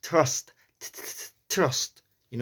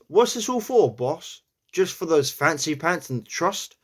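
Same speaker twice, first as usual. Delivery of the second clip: New York accent; 4 semitones higher than usual. Shown as a demonstration. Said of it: "The next one we have is".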